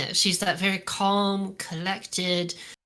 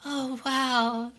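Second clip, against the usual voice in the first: mock cheerful denial; 4 semitones higher than usual. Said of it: "and she was like".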